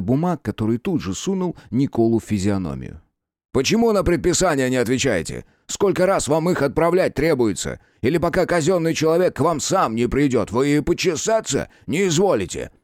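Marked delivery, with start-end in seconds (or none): 3.5-12.7 angry tirade. Acted. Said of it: "потоком гневных ... вопросов".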